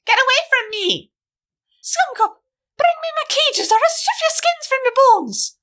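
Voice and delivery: a villain screaming threats into the street; hollering. Acted. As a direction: bellow threats at the cop in a high voice. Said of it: "Rose hollered".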